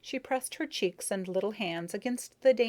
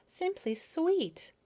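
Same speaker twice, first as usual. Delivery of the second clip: gushing; 10 semitones higher, much slower than usual. Acted. Bee admiring feelers, gushing.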